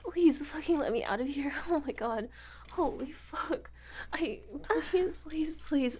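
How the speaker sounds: lightly voiced captive girl, crying and begging; terrified captive. Kidnapped girl begs the visitor to free her, tearful. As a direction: beg for release through panic.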